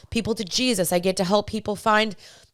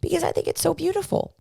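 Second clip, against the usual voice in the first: getting emotional; 6 semitones higher, faster than usual. Real, not acted. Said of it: "this makes me kinda cry".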